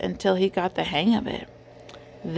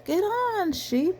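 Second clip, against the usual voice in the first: group shouting; 11 semitones higher, slower than usual. A narrator's reading. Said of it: "everyone shouted".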